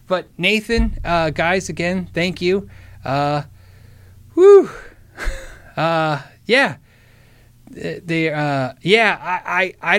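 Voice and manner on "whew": loud, high exhaled whew; big relieved whew. Real, not acted. Overwhelmed by the gift.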